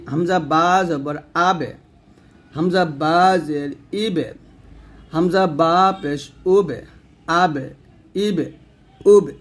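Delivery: light downward bounce on the "বে" of আবে; thin qalqalah. Shown as a demonstration. Teacher drilling the letter বা, thin qalqalah. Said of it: "বা নিচের দিকে নামবে".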